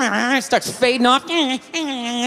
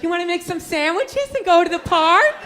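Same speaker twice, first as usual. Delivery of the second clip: put-on eager girlfriend; 5 semitones higher than usual.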